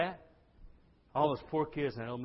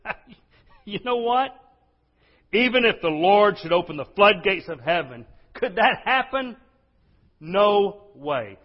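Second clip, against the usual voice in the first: scoffing, higher and louder, laughing through it; mocking laugh; 7 semitones higher, 11 dB louder than usual. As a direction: laugh off the prophecy in disbelief. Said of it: "he starts laughing".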